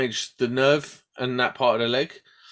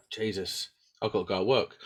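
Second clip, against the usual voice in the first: weary groan; 4 semitones lower, 6 dB quieter than usual. Retold or imitated. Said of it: "and I'm like".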